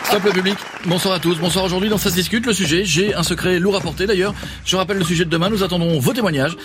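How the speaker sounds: Jean-Luc Delarue. Acted. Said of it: "monsieur Jean-Luc Delarue".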